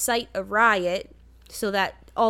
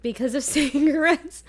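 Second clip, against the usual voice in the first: laughing whisper; 6 semitones higher, 4 dB louder than usual. Real, not acted. Repeating friend's joke laughing.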